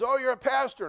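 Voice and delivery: officer surprised to learn the driver is a pastor. Retold or imitated. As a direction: act caught off guard by the news. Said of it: "He goes".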